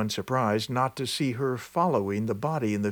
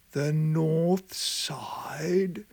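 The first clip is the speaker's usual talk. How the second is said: slow, breathless whispered question; startled whisper; 4 semitones higher, much slower than usual. Acted. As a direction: whisper it in disbelief. Sexton startled by grave order.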